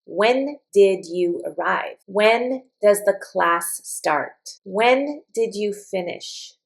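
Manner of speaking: said slowly, ending down; slow model questions. Shown as a demonstration. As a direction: model each question for learners. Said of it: "For example".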